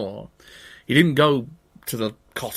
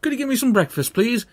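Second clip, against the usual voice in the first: put-on pitched-up boyish call; high Jack voice; 10 semitones higher, 3 dB louder, faster than usual. Jack asks giant's wife.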